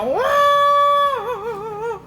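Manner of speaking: hammed-up wail starting high, then sulking; mock wailing. Palm stalk wails to the Prophet, hammed-up crying. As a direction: playfully wail as a jilted lover. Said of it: "tambah meraung dia".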